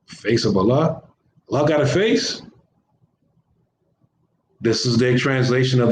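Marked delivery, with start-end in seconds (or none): 0.1-2.4 incredulous question. Shown as a demonstration.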